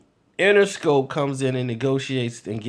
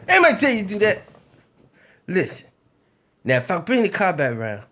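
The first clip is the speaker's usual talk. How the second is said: Suge Knight voice; faster than usual. Retold or imitated. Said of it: "I should do the voice".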